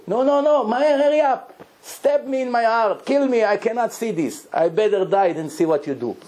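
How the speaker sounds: anguished outcry. Retold or imitated. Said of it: "Started to scream, to cry".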